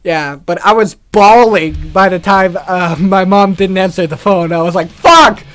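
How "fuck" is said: high, loud burst of frustration; despairing curse. Retold or imitated. Driver's mom won't pick up, loud despairing curse. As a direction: re-enact a desperate swear. Retold dismay, mom not answering.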